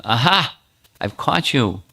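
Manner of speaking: a pleased pounce of discovery; jealous husband's gotcha; triumphant gotcha. Acted. Abhimanyu catches Radha in act.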